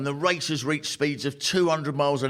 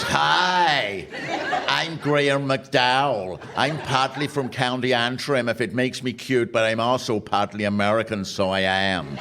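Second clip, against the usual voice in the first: mock McDowell accent. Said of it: "he's got this accent that goes".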